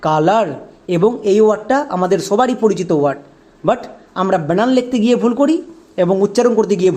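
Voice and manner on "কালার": কালার said as kaa-laar; কালার, long aa in both syllables; sight-word pronunciation. Shown as a demonstration. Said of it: "উচ্চারণটা দাঁড়ালো".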